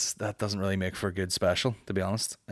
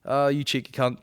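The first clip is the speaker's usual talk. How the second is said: friendly slagging; 5 semitones higher than usual. Retold or imitated. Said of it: "it's friendly".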